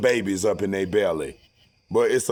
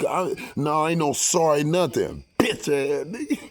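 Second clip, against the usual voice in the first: retold angry retort; 5 semitones higher than usual. Acted rejection of the apology.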